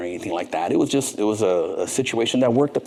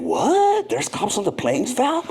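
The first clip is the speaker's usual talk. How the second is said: startled disbelief; 13 semitones higher, slower than usual. Retold or imitated. Shocked by cops on planes.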